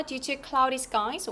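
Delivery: "Due to cloudy skies" slowly, up on "skies"; rising intonation. Shown as a demonstration. Teacher models the delay reason, rising on "skies". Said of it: "올려주시고요".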